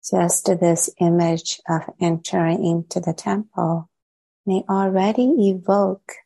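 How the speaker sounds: measured guided-meditation voice with long pauses. Real, not acted. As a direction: gently lead listeners inward, leaving long silences between phrases. Leads a meditation.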